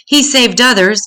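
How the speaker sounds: a taunting voice from the crowd at the cross; jeering. Acted. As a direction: sneer the dare up at the cross. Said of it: "jeering at Jesus".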